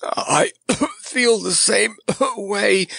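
half-drowned clown coughing out a reply. Acted. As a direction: cough through the words. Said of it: "coughed the clown".

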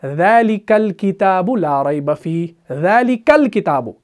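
"ज़ालिकल किताबु" joined smoothly, the al not voiced, slow; slow, melodic recitation of "ज़ालिकल किताबु"; Quranic recitation. Shown as a demonstration. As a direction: recite "ज़ालिकल किताबु" as one flowing phrase. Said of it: "जब हम मिलाकर पढ़ते हैं".

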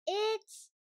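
dawning delight in a high piggy voice; Peppa realising. A narrator's reading. Peppa answers Daddy Pig's question, high and bursting out. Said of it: "she says".

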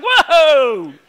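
high, loud whoa that settles into a calming talk; Jesus shouting whoa at angry disciples, then calming; Jesus reining them in. Retold or imitated. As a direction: pull the hotheads back like reining in a horse. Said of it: "Jesus is like".

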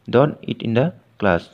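very slow, word by word; slow dictation. Shown as a demonstration. Teacher slowly dictating an example sentence to students, very slow. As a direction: spell each word out slowly for the class.

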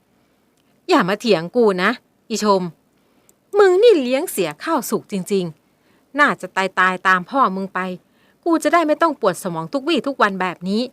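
loud, slow, spiteful scolding; mother berates daughter; angry mother. Acted. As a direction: curse her own daughter.

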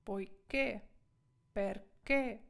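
"Poiché" and "perché" with the stress on final "ché"; stress on final syllable. Shown as a demonstration. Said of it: "Наголос ось цей. В яку сторону?".

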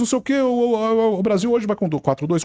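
match the narrator's pace on air; on-air reporter reply. Retold or imitated.

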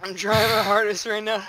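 low, soft, recovering breath; winded from laughing. Real, not acted. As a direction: get it out weakly after a laughing fit. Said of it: "You gotta breathe".

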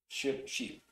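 "Ship" short i, "sheep" long ee, said softly; minimal pair demo. Shown as a demonstration. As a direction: contrast "Ship" and "sheep" quietly. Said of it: "Tenemos de sheep". ("Ship" corta, "sheep" larga)

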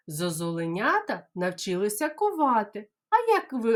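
ordinary talk, nothing marked

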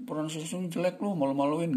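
high-pitched teasing put-down; mock scolding. Mocking a classmate's poor pronunciation, high scolding. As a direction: shame them over their accent, pitched high. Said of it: "Nggak ada itu".

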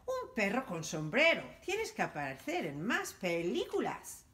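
excited movie director calling out; excited shout. Acted. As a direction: gush about the dog in a hat. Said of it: "y gritó".

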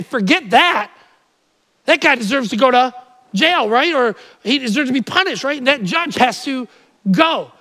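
loud, outraged objection; a citizen shouting down a lax judge; indignant citizen. Retold or imitated. Preacher voicing an outraged citizen, loud and indignant. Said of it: "You would say".

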